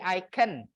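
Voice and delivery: "I can" with can reduced to a quick unstressed "kən"; "I can" with can barely voiced as "kən"; weak-form can. Shown as a demonstration. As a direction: say "I can" with a weak, swallowed schwa in can. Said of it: "can itu menjadi weak form bentuknya".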